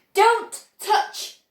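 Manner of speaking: high, loud sharp warning; urgent shouted warning. Acted. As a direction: snap out the order. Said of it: "shouted Mister Wonka".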